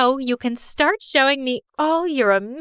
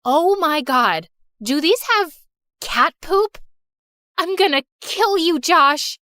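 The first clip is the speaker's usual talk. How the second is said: louder, outraged yelling; disgusted outrage; 4 semitones higher, 4 dB louder than usual. Acted. Girl finds cat poop in cookies, yelling at Josh in outrage. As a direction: explode at Josh.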